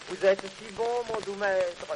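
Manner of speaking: sweet-talking the gatekeeper, gently; cajoling. Acted. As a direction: coax him like a flatterer. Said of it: "en faisant le câlin".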